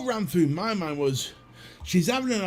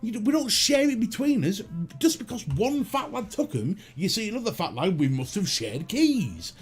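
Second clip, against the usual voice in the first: higher, mock-outraged protest; indignant rant; 6 semitones higher than usual. Real, not acted. Comedian ranting at the old woman about fat lads, higher and indignant. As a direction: protest like the insult is absurd.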